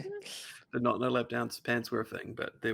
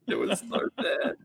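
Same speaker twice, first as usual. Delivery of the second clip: laughing through the words; breathless laugh while talking; 9 semitones higher, 4 dB louder, slower than usual. Real, not acted. Podcast host laughing at the awful line, real laughter.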